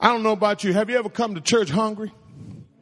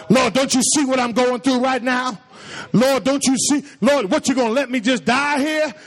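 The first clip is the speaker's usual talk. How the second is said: demanding prayer; 3 semitones higher than usual. Retold or imitated. Preacher mimics congregation praying in a crisis, demanding and put-upon. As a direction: mock-desperate pleading, pitch slightly raised. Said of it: "we pray like that".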